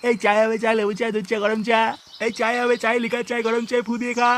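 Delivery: sing-song street vendor cry for tea; tea hawker's call. Acted. Shopkeeper hawking tea to passersby, sing-song vendor call.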